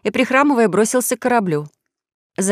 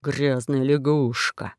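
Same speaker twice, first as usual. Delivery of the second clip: mild cursing; 5 semitones lower, 5 dB quieter, much slower than usual. Acted. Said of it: "ругался весельчак У".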